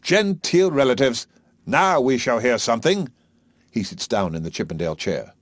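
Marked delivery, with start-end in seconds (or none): 0.0-3.1 higher, loud, relishing; eager. A narrator's reading. Higgins to his mother, eagerly anticipating the visitor. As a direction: rub your hands at the prospect. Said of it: "eagerly goes to his mother".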